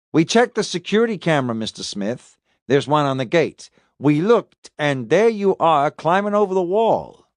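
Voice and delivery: lightly voiced detective laying out evidence, pitched a little up; interrogating detective. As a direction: press the suspect with each fact. Detective confronts suspect with evidence.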